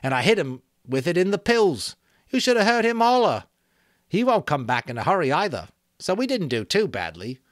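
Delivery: gleeful boasting. Acted. Eric boasting to Ralph how he hurt the attacker, gleeful. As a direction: crow about the hit, loving it.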